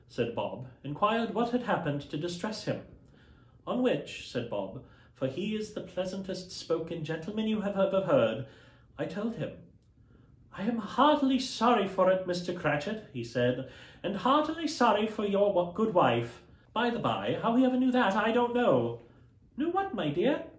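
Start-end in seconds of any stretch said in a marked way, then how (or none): 3.7-19.0 higher, lively father retelling; a cheerful clerk telling his family; lightly voiced Bob. 19.6-20.4 much higher, asking her husband; a curious wife quizzing her husband; wife's curious question. Acted. Mrs Cratchit voiced high.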